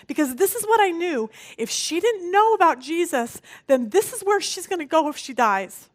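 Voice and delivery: retold frantic plea at the ICU door; desperate pleading. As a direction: beg to be let in, on the edge. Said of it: "I'm sobbing. I'm hysterical".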